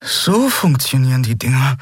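murmured, astonished. Acted. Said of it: "murmelte er, aufrichtig verblüfft".

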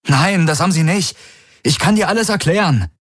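hohe, drängende Stimme eines verzweifelten Mannes; Garlin, flehend. A narrator's reading. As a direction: fleh sie an, hastig und atemlos. (Garlin fleht Ylana an, den Krieg zu beenden)

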